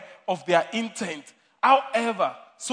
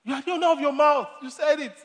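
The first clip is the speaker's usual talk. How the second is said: louder, higher firm retort; grandmother's saying; 6 semitones higher, 3 dB louder than usual. Retold or imitated. Grandmother firmly telling someone they own their words: louder, higher retort. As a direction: hand it back firmly, like grandma. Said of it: "my grandmother learned it".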